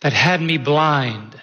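lyric spoken very slowly, word by word; slow, deliberate reading. Shown as a demonstration. Pastor reading the lyric anew for the church, very slowly. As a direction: draw out every phrase of the lyric. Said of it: "hear the words in a different way".

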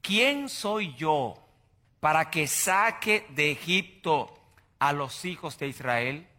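slow, small, doubtful voice of a humbled man; meek Moses. Acted. Moses answering God, meek and very slow. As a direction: let him shrink as he asks. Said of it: "Moisés le respondió a Dios".

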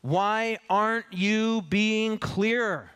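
slow, pointed restatement; slow translation. Shown as a demonstration. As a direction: spell out the real meaning slowly.

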